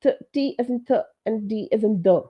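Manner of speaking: soft T and D sounds; soft US consonants. Shown as a demonstration. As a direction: say "th" and "the" as softened T and D. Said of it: "They say soft".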